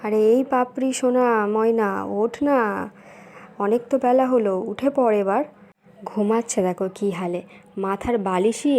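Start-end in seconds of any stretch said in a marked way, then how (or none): 0.0-5.4 put-on calling the kids up, a bit louder; calling out to wake. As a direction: rouse the sleeping children with a sing-song call. Mother calling sleeping children awake. (ঘুম ভাঙাতে ডাকাডাকি)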